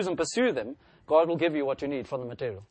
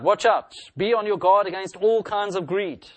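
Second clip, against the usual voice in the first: urgent warning; 5 semitones higher, 6 dB louder than usual. Acted. Jesus warning the whole crowd.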